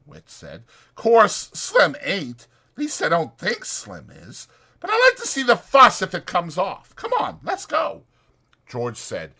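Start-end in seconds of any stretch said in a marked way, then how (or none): 0.9-8.0 higher, louder eager ranch hand; chatty ranch hand selling a night in town; Whit's voice. Acted. Voicing Whit.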